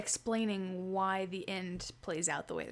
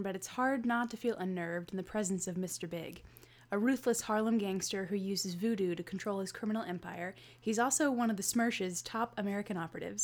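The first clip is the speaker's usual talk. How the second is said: measured book-blurb read; synopsis read. Acted. Co-host reading a Bond synopsis to listeners, blurb narration. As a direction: read it out like a back-cover summary.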